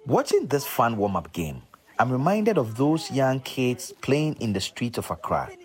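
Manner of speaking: polished presenter read with punched key words; scripted, deliberate radio narration; documentary narration. Acted. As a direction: set up the story for radio listeners.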